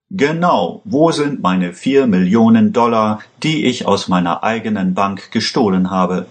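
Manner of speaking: half-hearted shout at a former partner; mild shout. Acted. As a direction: demand the stolen money with a touch of a yell. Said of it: "schrie Vega".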